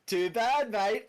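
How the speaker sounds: high, loud smug taunt; gloating grin. Acted. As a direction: taunt through a big grin. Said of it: "with a shit-eating grin on my face".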